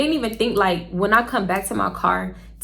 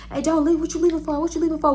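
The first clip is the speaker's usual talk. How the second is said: higher-pitched mock plea; imitated pleading date; 6 semitones higher, faster than usual. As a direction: mimic him begging you to stay. Imitating date begging her not to leave.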